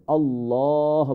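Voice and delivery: "আল্লাহ" with heavy L, long rounded "aw"; full-mouth Allah. Shown as a demonstration. Teacher giving the correct form, long rounded "আল্লাহ". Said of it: "বলতে হবে".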